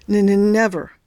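a light cold stammer before the word; shivering stutter. Acted. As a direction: teeth chattering on the n. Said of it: "He was still shivering a little".

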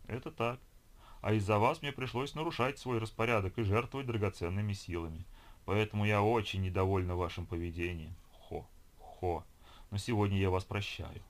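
gurgling fish man croak. Acted. Ho speaks to Olga.

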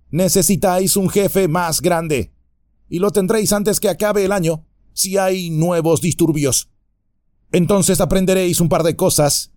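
hammed-up gloating ruffian; sneering bandit. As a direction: belittle the little folk. Other bandit boasts and threatens.

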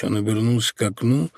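plain reading voice

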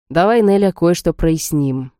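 slow lecturing tone; preachy. Acted. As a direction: lay it out like a lecture. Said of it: "произнёс он нравоучительным тоном".

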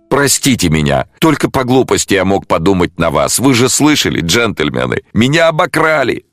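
mild tearful plea rising high; a touch of sobbing in the voice. A narrator's reading. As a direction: jeweller pleading with the detectives. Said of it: "всхлипнул он".

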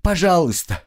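high, begging Пожалуйста; pleading. Acted. Captive begs her torturer, high urgent pleading. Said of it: "пленница снова взмолилась".

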